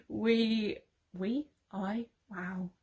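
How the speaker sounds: stumbling words held back by hiccups; choking down a hiccup mid-sentence; suppressing hiccups. Real, not acted. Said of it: "Sorry, I have hiccups".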